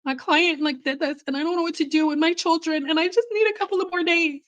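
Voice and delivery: rising, fast put-on voice pleading with the manager; put-on girly voice. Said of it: "she thought I talked like this for real".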